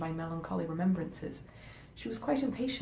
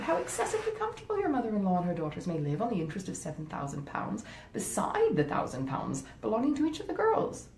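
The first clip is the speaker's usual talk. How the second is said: scheming wife; 3 semitones higher than usual. Acted. Wife talking her husband out of helping his stepmother, coaxing. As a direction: talk him out of the money, sweetly persuasive. Fanny persuades husband, high voice.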